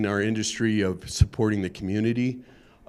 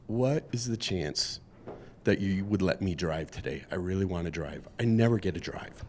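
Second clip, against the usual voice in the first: pleading Pope; 3 semitones lower, 8 dB quieter than usual. Acted. Pope begging his driver for the wheel, soft and pleading. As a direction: ask sweetly like a Pope who never gets to drive.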